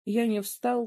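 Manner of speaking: usual speaking voice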